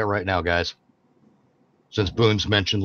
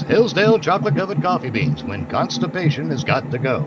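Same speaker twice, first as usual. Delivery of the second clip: radio announcer voice; 4 semitones higher than usual. Acted. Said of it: "radio announcer voice".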